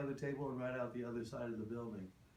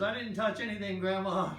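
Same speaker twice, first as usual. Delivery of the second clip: put-on high, loud pleading kid voice; boy pleading with his grandma; scared little boy; 7 semitones higher, 6 dB louder than usual. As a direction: protest like a frightened child ducking.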